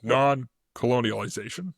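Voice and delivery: "Non-colonialization" said slowly, every syllable clear; slow, careful "Non-colonialization"; careful pronunciation. Shown as a demonstration. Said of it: "There you go".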